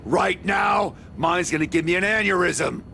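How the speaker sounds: fed up, raising voice; exasperated shout. Acted. Exasperated man ends conversation.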